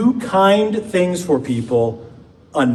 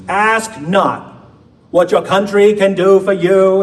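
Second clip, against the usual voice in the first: higher, louder Boston accent impression; speech quote in a light Boston Kennedy accent; JFK Boston accent; 5 semitones higher, 4 dB louder, slower than usual. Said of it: "in that amazing accent".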